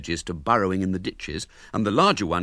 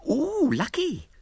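put-on very high, slow cooing girl; impressed little girl; slower than usual. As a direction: coo with envy. Girl admires, voiced high.

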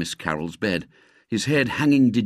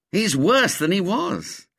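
gloomy; 10 semitones higher than usual. A narrator's reading. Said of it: "said Ginger gloomily".

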